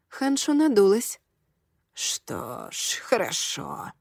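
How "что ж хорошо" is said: breathy, unvoiced sigh. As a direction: sigh it out resigned, barely voiced. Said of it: "вздохнула она".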